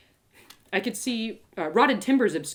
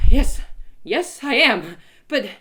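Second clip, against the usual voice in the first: astonished; 4 semitones higher, 9 dB louder, much slower than usual. Acted. Astonished vision.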